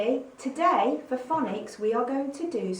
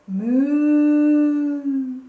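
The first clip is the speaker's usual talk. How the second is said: long, much louder lowing moo; booming cow moo; 5 semitones higher, 13 dB louder than usual. Shown as a demonstration. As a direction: moo like a cow with big lips. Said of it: "moo like a cow".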